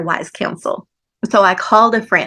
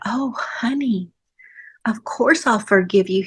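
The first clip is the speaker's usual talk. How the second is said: tender whisper; 4 dB quieter than usual. Retold or imitated. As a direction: whisper it like a loving husband. Husband voiced tenderly in story.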